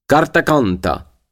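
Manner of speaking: put-on lent et grave, avec un léger accent italien; gravement. A narrator's reading. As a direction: posez les mots lentement, avec gravité. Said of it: "dit gravement Giovannone". (Giovannone montre le contrat, lent et grave)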